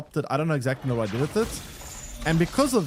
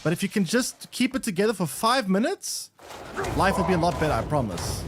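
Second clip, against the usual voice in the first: mock reassurance; 4 semitones higher than usual. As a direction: soothe him gently, hammed-up sincerity. Coaxing game character off ledge.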